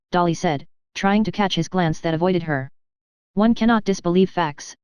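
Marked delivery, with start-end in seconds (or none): 3.3-4.8 "facts" given a firm push; emphasis landing on "facts"; stress on FACTS. A narrator's reading. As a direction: lean on the word "facts" to close the point. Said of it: "with an emphasis on the word facts".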